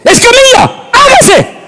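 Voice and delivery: high, ringing divine command; voice of God commanding. Acted. Preacher voicing God's command at creation. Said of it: "Dios no dijo así".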